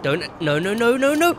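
frantic rising no's; panicking as it goes wrong; panicked no. Real, not acted. Panicked as player dies.

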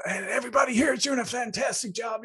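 high-pitched rallying speech, imitated; American VP. Visiting VP ends his speech to Irish staff, imitated rallying. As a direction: play the hyped-up visiting executive. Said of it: "one of the American V Ps came over".

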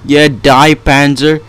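loud gleeful yell; triumphant shout. Real, not acted. Gamer finishing off the Panzer, loud triumph. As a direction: roar at the dying boss.

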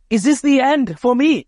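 a hint of dread in the demon's voice; lightly acted panic; frightened demon. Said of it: "is what the demon is asking".

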